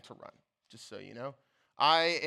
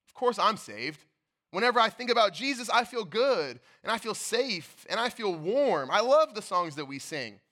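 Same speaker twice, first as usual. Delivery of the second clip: louder, quicker, higher gush of assurance; eager confidence; 4 semitones higher, 3 dB louder than usual. Retold or imitated. Pastor voicing a churchgoer sure of salvation, eager. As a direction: bubble over with certainty. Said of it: "you find yourself saying".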